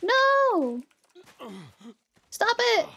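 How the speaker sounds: panicked yell. Real, not acted. Panicking at game enemy.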